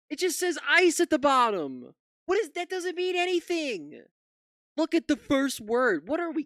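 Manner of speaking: high, loud, exasperated ranting; mocking rant. Real, not acted. Streamer mocking Fox hosts, loud exasperated rant.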